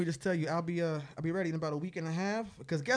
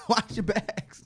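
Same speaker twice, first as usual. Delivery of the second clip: slow, drawn-out spooky warning voice; slow creepy warning; mock ominous warning; 5 semitones higher, much slower than usual. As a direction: drag out the threat like a horror trailer. Repeats warning, slow put-on voice.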